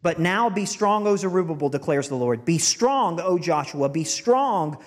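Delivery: preacher reading God's command; rousing scripture reading. Acted. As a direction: charge the people to be strong.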